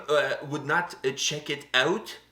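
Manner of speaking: slow, halting mock French; a bit of a French accent; French accent attempt. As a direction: drag out "check it out" in a French accent. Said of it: "my French accent is going like".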